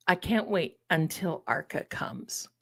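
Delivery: whispered, giddy anticipation; excited whisper. Real, not acted. Whispering her excitement to the stream viewers. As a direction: breathe it like a secret you can't hold.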